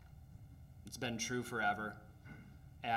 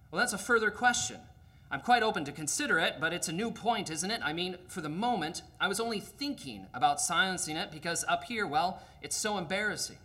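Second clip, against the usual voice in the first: higher, louder, nervous ghost voice; flustered ghost; 5 semitones higher, 3 dB louder than usual. Acted. Ghost wriggles away from the angel's offer, flustered. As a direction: squirm out of it, embarrassed and evasive.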